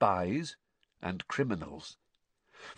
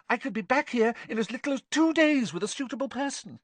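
very high, rapid, squeaky pleading; rising squeakily; 4 dB louder, much faster than usual. A narrator's reading. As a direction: gabble your case to the master in a squeak. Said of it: "his voice rising squeakily".

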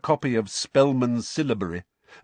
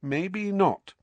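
dark; 10 semitones higher than usual. A narrator's reading. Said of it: "she said darkly".

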